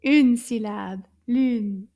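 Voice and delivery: lune with a rounded French u, lips pushed forward; French u sound. Shown as a demonstration. Teacher modelling lune for young learners, clear French u. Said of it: "Can you find the U sound in the word lune?".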